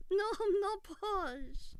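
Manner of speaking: loud, high, drawn-out denial; indignant protest. Real, not acted. Streamer rejecting the posh label, loudly indignant. Denying again that they are posh.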